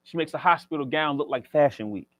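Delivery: rhythmic spoken word delivery, each line punched; spoken word poem. Acted. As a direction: perform it like slam poetry on stage. Recites a poem.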